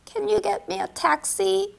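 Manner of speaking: slow second take. Shown as a demonstration. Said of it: "택시만 붙이면 되니".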